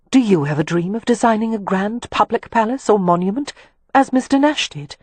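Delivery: lightly voiced, interested question to a companion; curious Catherine.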